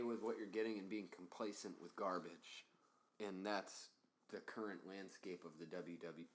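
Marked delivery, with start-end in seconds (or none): 4.3-6.3 hiccuping while talking; with hiccups. Real, not acted. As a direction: speak through the hiccups. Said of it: "I have hiccups right now".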